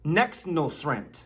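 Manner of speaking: "Nexnosrent" drawn out slowly, each syllable spelled out; mock Bidenese word. Shown as a demonstration. Teacher to the audience, slow careful teaching voice. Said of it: "The first word I'm going to teach you today is".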